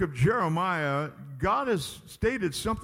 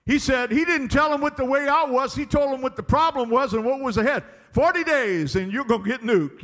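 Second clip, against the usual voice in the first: raised, driving pulpit delivery; full-force preaching; 6 semitones higher, 5 dB louder than usual. Real, not acted. Preacher retelling the prophet's blunt message, forceful preaching. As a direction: pound out the blunt warning.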